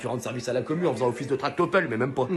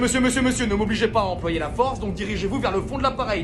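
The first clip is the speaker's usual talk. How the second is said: louder, raised-pitch command; commanding order; 5 semitones higher, 4 dB louder than usual. Acted. Marshal ordering the passenger to the back, loud. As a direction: order him to the back firmly.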